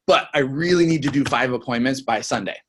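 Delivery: earnest push from "But I really need" onward; picked-up urgency. Shown as a demonstration. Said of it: "boom, pick it up right there".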